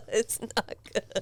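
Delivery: quiet disgusted. Real, not acted.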